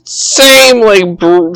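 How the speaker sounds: ordinary talk, nothing marked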